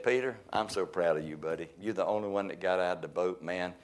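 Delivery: lightly voiced Jesus gushing over his buddy; mock proud Jesus. Preacher mocks soft praise for Peter as too sweet, a hint of doting. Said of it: "That ain't what he said".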